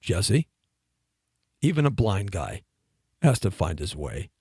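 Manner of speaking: low, settled mentor's lesson; deadpan baritone. Retold or imitated. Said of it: "he had this baritone voice".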